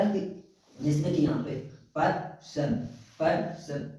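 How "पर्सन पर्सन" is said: "पर्सन" broken as "पर", pause, "सन"; syllable by syllable. Shown as a demonstration. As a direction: sound out "पर्सन" in two separate parts. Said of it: "अलग-अलग word को उच्चारण करने का काम".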